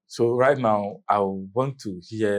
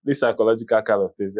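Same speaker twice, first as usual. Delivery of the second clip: laughing; 3 semitones higher, 5 dB louder than usual. Real, not acted. Host laughing at headmaster.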